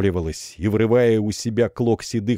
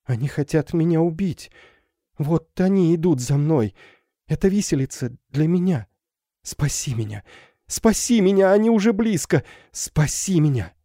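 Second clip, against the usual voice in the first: high, rising desperate begging; terrified plea; 9 semitones higher than usual. Acted. Girl begs for rescue. (в ужасе умоляет, высоко)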